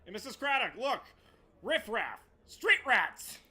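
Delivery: mock calling out. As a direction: tattle like a street urchin pointing at thieves. Calling out Aladdin-style to Craddock.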